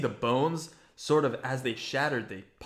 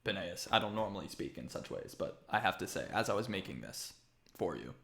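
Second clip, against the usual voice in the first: matter-of-fact, softer character voice; Cicero; 3 semitones lower, 4 dB quieter, faster than usual. Acted. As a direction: lower and quieter, plainly formal craftsman. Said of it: "He's very matter".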